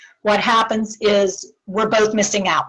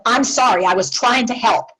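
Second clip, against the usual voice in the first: defensive apology. Shown as a demonstration. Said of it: "which is real different than".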